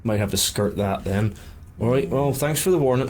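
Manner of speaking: West Country henchman voice; West Country accent. Acted. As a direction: thank them as a West Country thug. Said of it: "I've just been doing West Country".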